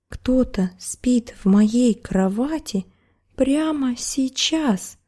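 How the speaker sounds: rising, slow high cub exclaiming; exclaiming bear cub. Acted. Bear cub finds the girl in his bed, exclaiming. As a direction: blurt it out like a startled cub. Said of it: "воскликнул медвежонок".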